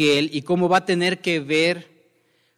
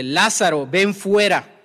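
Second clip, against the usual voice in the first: mild command, a little raised in pitch; 3 semitones higher than usual. Retold or imitated. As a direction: call him out with restrained authority, imitating a command. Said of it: "la voz de mando".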